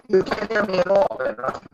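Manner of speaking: muffled bad-mic underwater sound; like talking from under water. Real, not acted. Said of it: "You sound like you're underwater".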